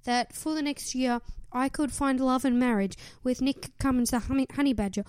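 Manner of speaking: lightly voiced Cass reading her diary; a mild mock of an earnest wish list; a hint of a sweet, hopeful diary voice; Cass impersonation. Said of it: "That was a pretty good impersonation".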